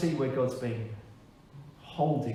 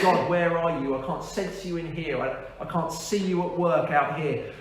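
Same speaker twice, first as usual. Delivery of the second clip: mildly exasperated plea to God; retold cry of doubt, raised at the start; pleading with God; 4 semitones higher than usual. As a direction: call out the opening question, then ease off. Acting out his questioning of God.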